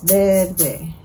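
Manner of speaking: Verde split into Ver-de; syllable by syllable. Shown as a demonstration. Teacher showing how to count, Verde in two beats. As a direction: beat out both halves of Verde. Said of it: "Así vamos a contar".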